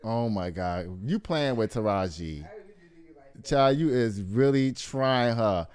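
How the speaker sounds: low, soft mumbling under her breath; muttering to herself. Real, not acted. Host hunting for the new photo, low and soft under her breath. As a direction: grumble quietly while searching.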